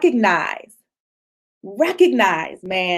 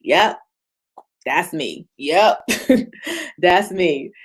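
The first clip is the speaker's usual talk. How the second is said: owning it; 5 semitones lower than usual. Shown as a demonstration. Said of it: "just call yourself out".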